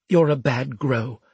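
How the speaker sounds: lightly voiced pronouncement. A narrator's reading. Officer to man who just squeezed him, indignant pronouncement. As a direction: pronounce judgement as the offended superior. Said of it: "he pronounced".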